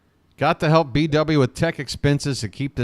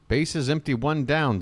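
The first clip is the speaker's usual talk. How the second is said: steady live baseball call; radio play-by-play voice. Acted. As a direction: call the game for the listeners.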